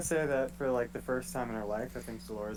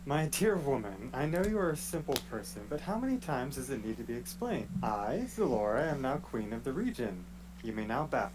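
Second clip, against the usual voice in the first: haughty queen. Acted. Player plays haughty queen Zalora.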